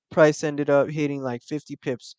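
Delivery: talking through hiccups; hiccuping between words. Real, not acted. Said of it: "I got the hiccups".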